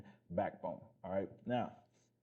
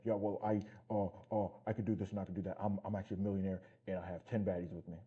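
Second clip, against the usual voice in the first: mocking fake millionaire. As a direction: parody a fake rich guy bragging. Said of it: "It's like".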